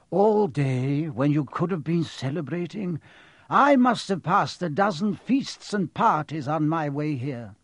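a hint of an indignant professor; lightly voiced stern professor. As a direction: play a mildly affronted professor. Voices Professor McGonagall in story.

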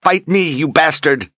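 shrieked high and loud, raging; furious scream. A narrator's reading. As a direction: scream it at him in fury. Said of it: "screaming in fury".

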